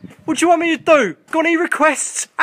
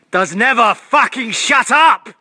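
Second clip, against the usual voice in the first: exasperated; 4 semitones higher, 5 dB louder than usual. Real, not acted. Ranting at noisy pigeon.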